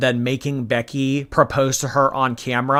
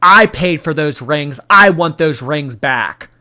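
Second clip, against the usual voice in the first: angry; 5 dB louder than usual. Retold or imitated. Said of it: "Amber Lynn was like".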